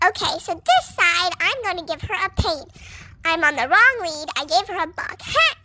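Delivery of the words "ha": cheeky taunt. Acted. Pony bucking rider.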